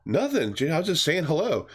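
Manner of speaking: light, high stoner reply; stoner dude voice. Retold or imitated. Dealer brushing off the kids, mild stoner voice. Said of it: "the Fred Durst guy is like".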